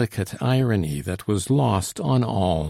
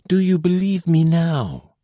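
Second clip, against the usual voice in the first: deep anxiety; 9 semitones higher, 5 dB louder than usual. A narrator's reading. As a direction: plead with them, held by worry. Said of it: "she exclaimed in tones of deep anxiety".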